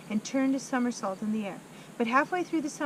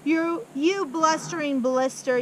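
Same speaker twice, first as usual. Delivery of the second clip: loud, slow insult; angry yell; 4 semitones higher, 6 dB louder, slower than usual. Acted. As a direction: yell at the boy. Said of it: "yelled the Trunchbull".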